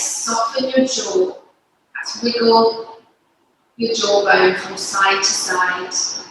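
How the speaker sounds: calm, unhurried instruction with long pauses; guided yoga. Real, not acted. Yoga teacher leading parents and babies through breathing, guided yoga. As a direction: guide them gently through each breath, phrase by phrase.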